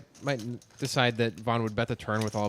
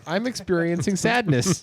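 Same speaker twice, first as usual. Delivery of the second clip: smiling voice; 6 semitones higher than usual. Real, not acted. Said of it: "you say it with such a smile in your voice".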